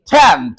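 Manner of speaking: टेंथ with a breathy aspirated th; टेंथ, the t aspirated, not टेंट; say tenth. Shown as a demonstration. Teacher models टेंथ for the class, breathy th. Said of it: "बोलो".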